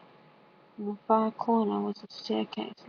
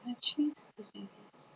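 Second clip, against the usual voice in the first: lightly voiced skunk; 6 dB quieter than usual. A narrator's reading. Skunk's unspoken reply, voiced softly.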